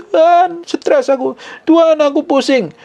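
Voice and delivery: high hammed-up sobbing plea; mock wailing prayer. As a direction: ham up a panicked wailing prayer. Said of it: "nangis jerat-jerit".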